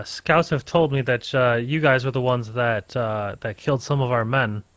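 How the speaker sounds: a hint of a stern soldier, measured; stern commander. GM voices the enemy commander.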